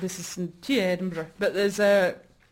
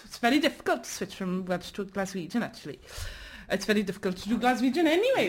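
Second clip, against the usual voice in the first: a rough mock Glaswegian accent, fast at the end; bad Glaswegian accent; 2 semitones lower, 3 dB quieter, faster than usual. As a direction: put on your worst Glaswegian accent. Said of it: "my worst Glaswegian accent".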